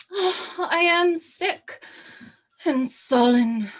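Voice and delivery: high, slow faked swoon; feigned sickness. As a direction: play it like a fainting fit. Cleopatra feigning illness.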